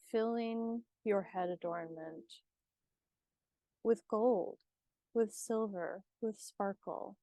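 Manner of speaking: unhurried meditation guide with long pauses; guided meditation. Acted. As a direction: ease the listener into calm, leaving space between phrases.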